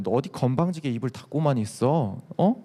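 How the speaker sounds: a mild sneer, looking down on him; sneering taunt. Retold or imitated. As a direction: needle him for keeping his mouth shut. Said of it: "되게 비아냥거리면서 얘기하는 거예요".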